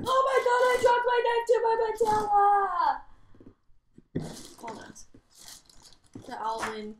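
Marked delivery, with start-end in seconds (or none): 0.1-3.0 sudden loud high yelp of pain; startled shout. Real, not acted. Shouting after dropping a knife on her knee, loud and high. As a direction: blurt it out, hurt and shocked.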